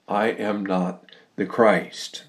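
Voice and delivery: slow, deliberate quoted denial; emphatic denial. Retold or imitated. Preacher reading out John's confession, emphatic denial. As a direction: weigh out each word, pausing before the last phrase. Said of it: "notice how emphatically the Apostle John".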